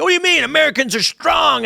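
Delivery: high mocking squeal of disbelief; mock incredulous shout; mocking quote. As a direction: sneer it back in a shrill mock voice. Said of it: "people are like".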